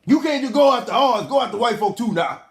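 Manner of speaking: lightly voiced old folks' complaint; old person talking. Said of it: "why do old people talk like that".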